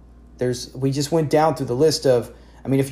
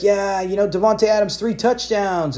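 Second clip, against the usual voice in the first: higher, slowing on three touchdowns; mock excited fan; 6 semitones higher than usual. Fan gloating over his player's touchdowns, mock excited. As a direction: savor a big fantasy score. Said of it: "and you're super excited".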